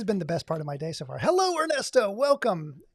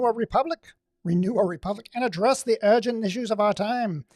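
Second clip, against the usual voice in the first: villain voice; 2 semitones higher, 4 dB louder than usual. Acted. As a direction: announce it like a scheming villain. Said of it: "like a villain".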